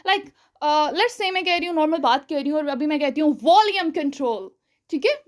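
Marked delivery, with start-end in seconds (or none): 3.4-4.5 louder demo. Shown as a demonstration. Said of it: "अपना volume था उसे तेज़ किया".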